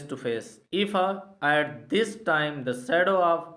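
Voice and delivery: very slow, word by word, like dictation; slow question reading. Shown as a demonstration. Teacher reading an exam question to students, very slow and deliberate. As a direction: read the question out slowly so everyone can follow. Reads English question aloud slowly.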